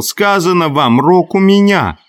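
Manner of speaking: high, insistent yelled protest; yelling. A narrator's reading. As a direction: demand to be heard at high pitch. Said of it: "Хрюша орал".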